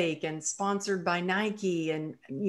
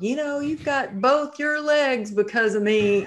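higher, louder mock boast; husband's playful boast, higher and louder; husband teasing; 8 semitones higher, 5 dB louder than usual. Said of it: "he still kids around".

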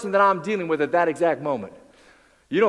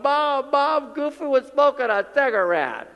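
put-on excited kid; 5 semitones higher, slower than usual. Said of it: "some kid's running up to his mom going".

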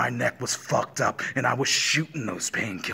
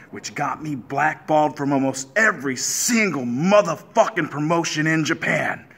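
angry shout; 3 semitones higher, 7 dB louder than usual. Acted. Angry heel promo, rising rant.

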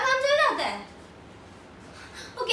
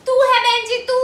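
loud, higher, stress on तू; indignant retort; 4 semitones higher, 9 dB louder than usual. Acted. Woman returning the "बहन जी" insult, indignant shout. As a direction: throw it back, punching तू. Throws the insult back at him.

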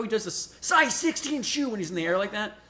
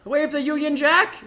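raised-pitch mock British cheer; British accent; 6 semitones higher than usual. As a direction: play up the British patriot. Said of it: "I'm done with that".

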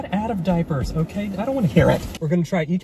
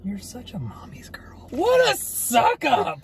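teasing whisper; 6 semitones higher, slower than usual. Acted.

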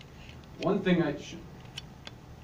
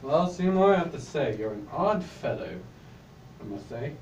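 lower, put-on British accent at the line endings; 3 semitones lower than usual. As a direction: play it lightly British, sinking in pitch. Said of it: "You said it in a British accent as well".

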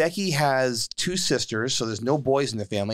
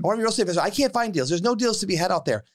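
higher, whiny mock of a complainer; mock complaining investor; 5 semitones higher, faster than usual. Host mocking would-be investors who claim no deals, whiny imitation. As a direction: mimic a self-pitying would-be investor. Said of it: "where people say".

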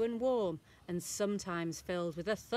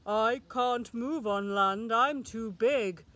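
moaning; 4 dB louder than usual. A narrator's reading. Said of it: "moaned the whale".

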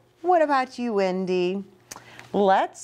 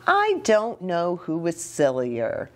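put-on reading to children; 4 semitones higher than usual. Reads story to children.

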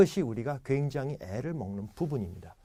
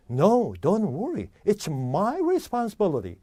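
foreign boss; 4 semitones higher, much slower than usual. Acted. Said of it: "사장님이".

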